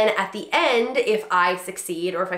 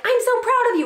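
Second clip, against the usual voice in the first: much higher, louder gush; gushing praise; 6 dB louder than usual. Shown as a demonstration. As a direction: beam with praise. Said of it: "instead of being like".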